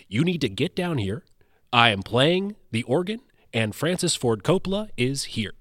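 lightly voiced announcer impression; measured, grand announcer delivery, lightly done; Ken Double. Friend says a famous director is here, mild announcer voice. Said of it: "he has this great announcer voice".

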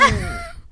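very high short laugh; a sudden high squeal of laughter; high little laugh; high squeak laugh. Real, not acted.

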